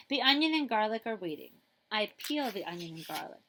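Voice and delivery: lively storybook reading; reading to children. Acted. Librarian reading a picture book to children, lively. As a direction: read it like story time for kids.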